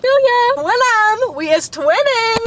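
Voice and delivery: squealed "we match" cheer; excited solidarity. Real, not acted. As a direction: bond with viewers who share her story. Bonding with fatherless viewers.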